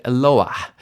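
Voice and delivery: "Eloah" ending in a breathed h; audible final hey. Shown as a demonstration. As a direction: let the h of "Eloah" be heard, voice falling. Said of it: "You hear the hey at the end".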